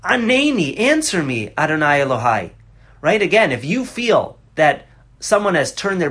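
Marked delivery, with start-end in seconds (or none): 0.0-2.5 pleading cry to God. Retold or imitated. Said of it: "as if you scream to Hashem".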